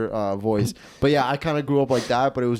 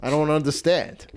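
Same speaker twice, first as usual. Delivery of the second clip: Italian woman; 2 semitones higher than usual. Retold or imitated. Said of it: "the Italian women just accept it".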